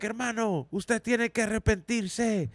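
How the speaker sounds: slow, drawn-out mock call to repent; street-corner preacher. AA speaker addressing others like corner preachers, imitated preaching. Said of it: "like those fools in the corners".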